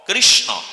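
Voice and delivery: কৃষ্ণ said loud, ending on a short o; firm model of কৃষ্ণ, final o clear; correct Krishna with o. Shown as a demonstration. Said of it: "অ".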